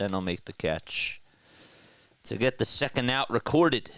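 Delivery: baseball call, lifted on the pitch then settling; live play-by-play. Acted. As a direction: follow the ball out to the catch. Calls a fly ball live.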